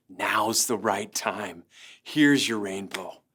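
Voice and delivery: low, slow divine reassurance; gentle voice of God. Retold or imitated. Pastor voicing God's answer at the rainbow, low and slow.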